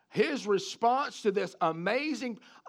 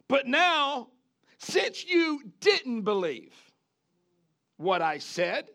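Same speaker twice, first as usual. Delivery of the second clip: high, louder, slow rebuke; stern angel; 5 semitones higher, 3 dB louder, slower than usual. Retold or imitated. Angel rebuking Zechariah's doubt, slow and stern. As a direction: drag out the rebuke like a judge. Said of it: "Then the angel said".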